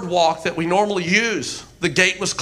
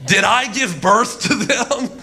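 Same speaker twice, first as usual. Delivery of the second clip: indignant plea; 3 semitones higher than usual. Acted. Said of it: "can you hear his voice".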